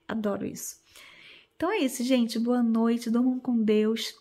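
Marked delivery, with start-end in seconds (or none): 0.1-0.8 whispering. Real, not acted. Cozy whisper in bed.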